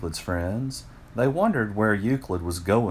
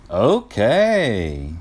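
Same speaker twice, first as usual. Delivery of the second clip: laughing; 3 semitones higher, 6 dB louder than usual. Acted. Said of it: "Euclid's friends laughed".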